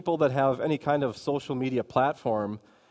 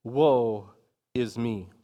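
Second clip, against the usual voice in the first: slow, weighty lament with a pause; lightly acted prophet crying out in woe; Isaiah's solemn cry; 3 semitones lower, much slower than usual. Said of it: "Isaiah cries out".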